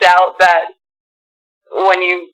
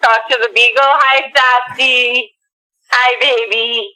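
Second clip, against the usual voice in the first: phone speaker; 3 semitones higher, slower than usual. Real, not acted. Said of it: "You're on speakerphone".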